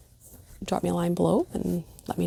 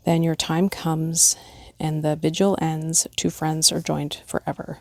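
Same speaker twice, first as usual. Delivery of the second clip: gentle, measured poem read aloud; lightly heartfelt recitation. Acted. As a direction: read it like a memorial verse. Reads pet memorial poem aloud.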